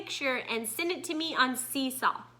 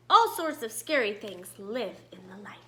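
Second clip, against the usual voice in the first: fearful whisper, softer; gasped whisper; 4 semitones lower, 4 dB quieter than usual. Acted. Gloanna refusing to swim up, scared whisper. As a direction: breathe it out scared. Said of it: "Gloanna gasped".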